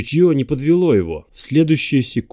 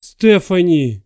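slow anguished call; 8 semitones higher, 7 dB louder, much slower than usual. Acted. Calling after she fell.

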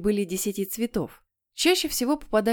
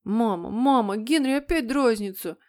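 put-on higher-pitched, plaintive kid; tattling child; 3 semitones higher than usual. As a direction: complain to mum like a little boy. Child tattles on teasing brother. (ябедничая, жалобным детским голосом)

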